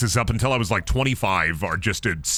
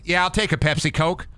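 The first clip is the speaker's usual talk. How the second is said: higher, put-on Southern accent; mock Southern; 5 semitones higher than usual. Southerner accepts Pepsi from server, mock Southern accent. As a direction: play a satisfied Southern customer, Southern accent. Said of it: "Southern people for saying Coke".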